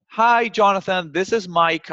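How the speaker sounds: slow, bright-toned hello to the receptionist; friendly greeting. Shown as a demonstration. Salesman greeting the receptionist by first name, slowly and friendly. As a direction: sound like an old pal dropping by. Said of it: "greet the receptionist friendly".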